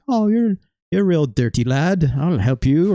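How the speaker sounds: a loose, hammed-up Irish accent; weird Irish accent imitation. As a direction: toss off a mock Irish brogue, half-hearted. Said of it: "or whatever weird accent he had".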